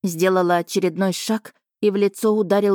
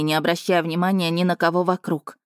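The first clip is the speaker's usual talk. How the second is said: ordinary delivery, nothing marked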